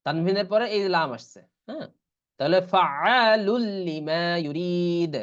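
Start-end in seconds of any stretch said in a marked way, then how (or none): 2.7-5.2 slow recitation of ফাআলুল লিমা ইউরিদ; long, sustained aa and ee in ফাআলুল লিমা ইউরিদ; merged without ghunnah. Shown as a demonstration. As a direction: join ফাআলুল to লিমা on a clean doubled l. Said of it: "কিন্তু গুন্না হবে না".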